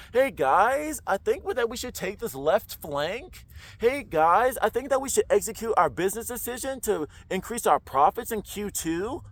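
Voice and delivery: lightly voiced hesitant boss, every phrase lifting; unsure questioning leader. Shown as a demonstration. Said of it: "Who would you wanna go into about".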